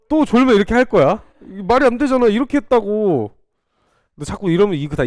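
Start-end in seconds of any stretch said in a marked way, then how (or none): 0.1-3.3 animated threat. Real, not acted. Teacher threatening dozing students.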